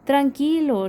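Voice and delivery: chillido agudo y algo más fuerte de ratón; ratón que tranquiliza al oso con un chillido; tranquilo, chillando. Acted. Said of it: "chilla ratón". (ratón consuela al oso con un chillido agudo)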